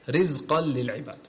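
رزقا للعباد with a thin, light ra. Shown as a demonstration. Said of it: "ترقيق الراء".

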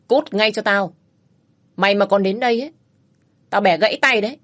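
man threatening a wife beater; cold threat. Acted. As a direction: warn him off for good. Rescuer threatens the bully.

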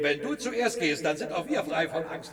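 laughing through the words; mocking laugh. Follower laughing at the frightened leader, mocking. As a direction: laugh at his cowardice.

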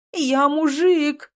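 slow, loud, high scream. A narrator's reading. Woman screaming at her male reflection, horrified. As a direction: stretch it out in horror. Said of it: "закричала".

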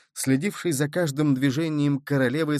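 ordinary delivery, nothing marked

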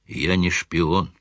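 slow, somber and quiet; gloomy. Acted. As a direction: say it darkly, heavy and slow. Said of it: "сумрачно произнёс".

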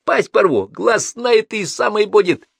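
loud, high, menacing shout; barked threat. A narrator's reading. Crazed man threatening his captive, angry bark. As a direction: threaten him at full voice. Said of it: "гаркнул он".

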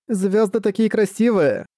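put-on high, slow dreamy child voice; awed little girl. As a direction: marvel at the stars. Girl admires stars.

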